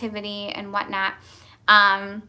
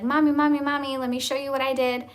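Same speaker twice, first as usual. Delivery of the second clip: put-on excited kids; 4 semitones higher, faster than usual. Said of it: "They're like".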